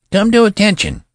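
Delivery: high, loud cracking command that tries to boom; a boy's voice straining to roar an order; treble attempt at thunder. A narrator's reading. Young general trying to thunder an order at the sentry, high and loud. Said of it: "He tried to thunder".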